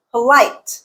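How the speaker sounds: polite with LITE long and strong; second-syllable stress. Shown as a demonstration. Teacher giving an exception, polite stressed on LITE. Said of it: "Here is an exception".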